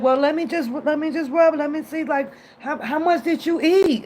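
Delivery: mock doting boyfriend. Boyfriend voiced in her story.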